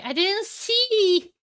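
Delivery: high, drawn-out exclamation; excited outcry. Real, not acted. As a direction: let the last word soar and stretch. Caster reacting to the game.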